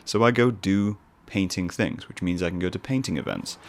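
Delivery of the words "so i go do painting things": posh painter. Pretend. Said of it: "my voice goes slightly more posh when I'm a painter".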